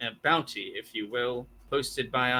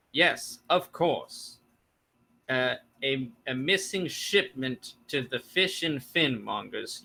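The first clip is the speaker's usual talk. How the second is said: halting sheriff. Acted. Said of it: "just kinda stops randomly in his sentences".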